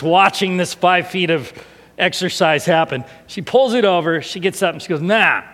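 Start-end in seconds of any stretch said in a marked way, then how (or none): 5.0-5.4 loud, punchy "nah"; one big mock "nah"; imitated child's exclamation. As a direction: mimic a small child's triumphant noise. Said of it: "like that".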